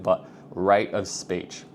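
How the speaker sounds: drawn out slowly; slowed down. Shown as a demonstration. Coaching viewers, slowing down to stress a point. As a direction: stretch each word to land it. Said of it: "I was just doing it then".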